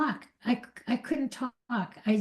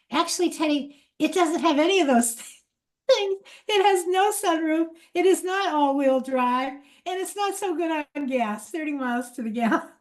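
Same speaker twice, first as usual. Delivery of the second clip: sheepish laughter; 6 semitones higher than usual. Retold or imitated. Sheepish confession to her son.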